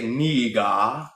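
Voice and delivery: put-on "Nigga" said with a clipped African accent, vowels pure. Mocking how Africans say the word, in an African accent. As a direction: imitate an African speaker saying "Nigga". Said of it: "versus how they say".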